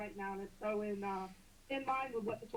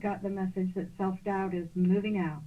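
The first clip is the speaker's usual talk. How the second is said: choked up, near tears; tearful; 8 dB louder than usual. Real, not acted. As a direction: voice breaking with emotion. Caller moved by the message.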